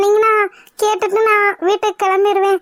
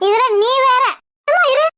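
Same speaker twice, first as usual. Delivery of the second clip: irritated; 4 semitones higher than usual. Acted. Irritated husband snaps at wife.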